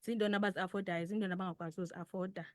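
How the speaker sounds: normal talking voice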